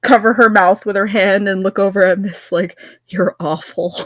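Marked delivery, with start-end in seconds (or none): 3.1-3.9 amused, with a laugh slipping out; stifle a giggle as you scold a friend; holding back laughter. Acted. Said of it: "hold back a little snort of laughter".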